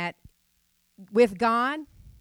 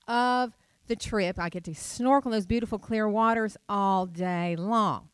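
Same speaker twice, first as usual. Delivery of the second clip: excited gush; 2 semitones higher than usual. Retold or imitated. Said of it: "And I was like".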